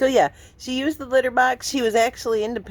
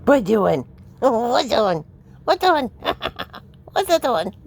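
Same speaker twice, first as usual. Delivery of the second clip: cooing pet question. Real, not acted. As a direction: coo at the cat. Baby talk to cat.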